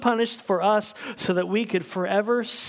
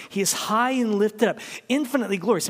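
louder, higher praise; rising proclamation; 5 semitones higher, 4 dB louder, faster than usual. Real, not acted. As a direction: proclaim his glory. Preaching climax.

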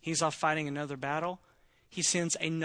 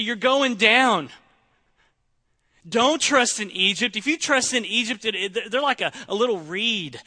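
mock taunting shout; 7 semitones higher, 9 dB louder than usual. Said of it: "they say".

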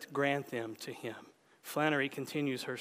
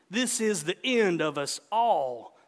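put-on satisfied old man; 3 semitones higher, 5 dB louder than usual. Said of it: "the old man said with satisfaction".

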